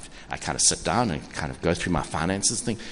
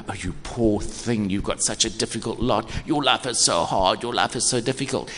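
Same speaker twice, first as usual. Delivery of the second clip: lightly voiced patronizing sweetness; a hint of syrupy condescension; mock saccharine pity. Preacher mocking pity for the hard-done-by, mildly saccharine. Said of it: "patronizing, sacri-, saccharine, sweet kind of".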